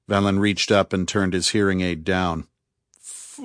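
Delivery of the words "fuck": high, long stretched-out howl; one long, high whooping cry; drawn-out howl. A narrator's reading. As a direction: howl it out, holding the vowel. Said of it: "howled Ari, drawing it out".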